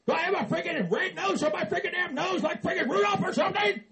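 mock furious outburst, half laughing; angry yelling. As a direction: yell at the giggling elves to shut up. Furious at giggling elves.

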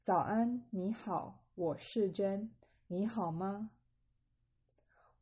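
carefully spaced Mandarin model dialogue; measured read-along. Shown as a demonstration. Teacher going through the conversation for learners, measured and deliberate. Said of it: "I'm gonna go through it again".

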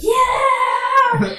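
high, loud whoop; excited cheer. Retold or imitated. Best friends kicking a cup on a walk, high excited whoop. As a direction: cheer like you just kicked a cup across the street. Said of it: "We're like".

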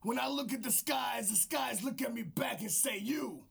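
gruff wrestling trash talk aimed at the skies; over-the-top wrestling promo; wrestler promo voice. Acted. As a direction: hype man cutting a promo. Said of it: "This is my wrestler voice".

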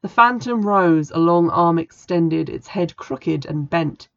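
slow, heavy horror reading; slow spooky storytelling; ominous narration. A narrator's reading. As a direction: draw out the creeping menace.

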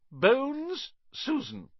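high, loud roll call; calling out a name. Acted. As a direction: call the pupil up to the stool. Teacher calls out a name.

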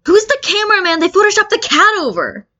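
high, bright put-on commenter voice; voiced commenter. Reader voices a puzzled fan comment, high and squeaky.

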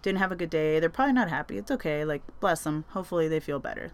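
a light touch of comforting father; gentle dad. Retold or imitated. Dad softly explaining to his daughter. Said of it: "It's like".

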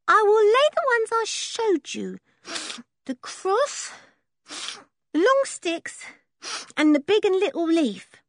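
put-on high, eager boy listing signs; a boy pleased to be asked a favour; proud gypsy boy. A narrator's reading. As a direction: Sniffer tells George which signs he will lay, high and eager. Sniffer's voice.

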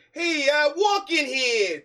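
high, loud, slow New York tough-guy voice; mock the cheesy New York swagger; New York douchebag. Host mocking Andrew Garfield's New York accent, loud and slow. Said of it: "That's how he sounded".

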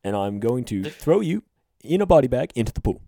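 lightly voiced stern statesman; measured presidential scolding in deliberate phrases; Obama. President threatening Riley over a punch, Obama impression. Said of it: "That's not a bad Obama impression".

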